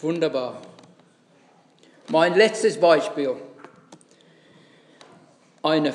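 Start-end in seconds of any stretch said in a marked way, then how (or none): none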